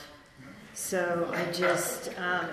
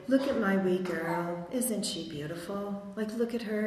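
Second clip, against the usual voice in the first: Scottish mum. Retold or imitated. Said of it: "She had a very thick Scottish accent".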